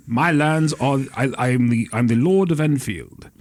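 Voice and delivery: slow, stately aristocrat; aristocratic lord. Shown as a demonstration. Game master showing off a noble, stately aristocratic voice. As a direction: announce yourself as landed gentry. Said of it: "uh, uh, aristocratic fo".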